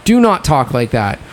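firm word-by-word reprimand; retold scolding. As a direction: hammer home the telling-off. Retold telling-off of a friend.

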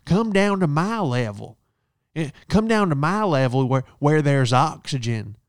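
imitating rude lady. Rude guest telling him to come down to her level, taunting. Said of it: "She goes".

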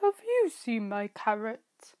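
lightly voiced rabbit, a touch sadder; a small rabbit asking hopefully. Rabbit asks Mister Robin.

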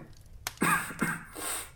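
acted hacking cough of an invalid; sickly cough. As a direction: cough as if gravely ill. Sick man coughs.

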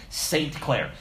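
"Saint Clair" with a distinct "Saint"; pronounced as two words. Retold or imitated. Pastor insisting on his name, "Saint Clair" in two clear words. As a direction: separate "Saint" from "Clair", long "ay". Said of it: "he used to say it's Saint Clair".

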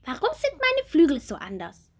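high, bright little bumblebee; small bumblebee voice. Acted. Little bumblebee Bommel asking Marie about her wings, high childlike voice. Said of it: "fragt die kleine Hummel".

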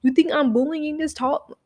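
high indignant protest. Retold or imitated. Arguing to the principal, high indignant protest. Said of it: "I was like".

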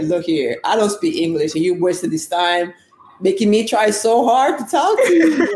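mildly mad teammate, pitch climbing at the end; retold exasperation. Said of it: "one of my team was so mad".

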